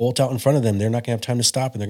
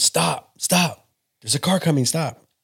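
high-pitched, raised yell; 6 semitones higher than usual. A father retelling yelling at his son running across the street, retelling a yell. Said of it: "as I'm yelling at him".

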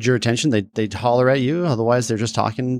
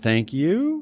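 thank you said with rising, questioning intonation; 5 semitones higher than usual. Imitating someone's puzzled reply to a compliment: questioning "thank you". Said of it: "Like a question wise".

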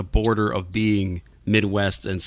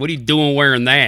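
horrible upstate New York accent impression, higher, louder; 4 semitones higher, 5 dB louder than usual. Acting out someone challenging a Cubs shirt: bad upstate New York accent. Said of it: "sounds like they have the upstate New York accent".

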